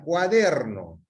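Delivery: "cuaderno" slowed down, falling at the end; slow word demonstration. Shown as a demonstration. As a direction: say "cuaderno" slowly as a model word. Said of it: "acá les decía".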